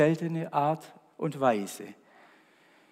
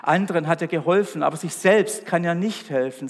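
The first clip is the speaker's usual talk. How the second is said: louder, brisk mockery; mocking; 4 dB louder than usual. Priests mock the crucified Jesus among themselves, mocking. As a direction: sneer about him to one another. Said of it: "sagten sie spöttisch".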